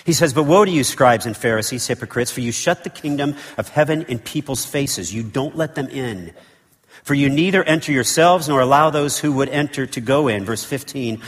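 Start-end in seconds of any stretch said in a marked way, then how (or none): 0.3-10.5 put-on loud, high Old Testament prophet's woe; fiery prophetic rebuke; prophet preaching. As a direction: thunder it like a prophet denouncing the Pharisees. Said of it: "like an Old Testament prophet preaching here".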